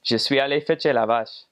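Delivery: French said the normal way, clearly articulated; standard French. Shown as a demonstration. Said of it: "a normal person would say".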